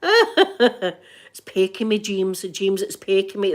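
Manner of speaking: slow, giggly retelling; laughing while quoting. Retold or imitated. Retelling the pecked man to co-hosts, laughing slowly. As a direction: laugh through the quote.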